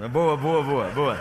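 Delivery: cheering himself on. Real, not acted. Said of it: "Tô relaxando".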